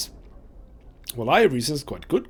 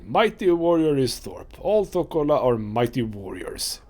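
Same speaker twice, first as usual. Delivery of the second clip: mighty warrior boast. Acted. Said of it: "big guys always talk like that".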